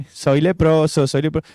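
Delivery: mock carefree chant, understated; falso disfrute, burlón. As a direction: toss it off as if enjoying it, half-hearted. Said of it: "disfrutando, no, ninguno". (fingiendo disfrutarlo, a media voz)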